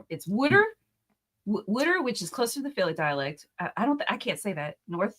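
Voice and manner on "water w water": "Wooder" for water, first vowel as in wood; higher-pitched "Wooder", South Jersey style; regional pronunciation. Shown as a demonstration. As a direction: say "Wooder" with a short oo, Philly-like. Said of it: "Central and South New Jersey pronouncing water".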